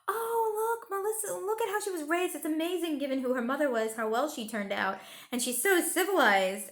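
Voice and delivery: high, breathy-sounding mock gushing of a snobby guest; hammed-up sing-song admiration, pitched high; gushing gossip. Mocking guests who gush over the princess, in a high voice. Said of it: "listening to people say things like".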